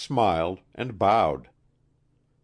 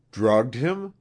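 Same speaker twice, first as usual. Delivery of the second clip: louder, higher, rough question; rough demand; 6 semitones higher, 5 dB louder than usual. A narrator's reading. Wilson challenging the queen about the drug, rough. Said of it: "he demanded roughly".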